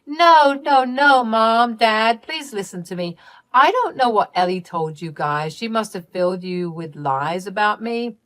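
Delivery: high, loud panicked denial easing off; desperate pleading. Acted. Caught daughter begging her parents to believe her, panicked and high. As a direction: plead your innocence in a rush.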